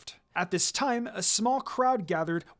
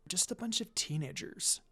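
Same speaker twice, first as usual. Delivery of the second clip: whispered back; 9 dB quieter than usual. A narrator's reading. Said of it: "Monaco whispered back".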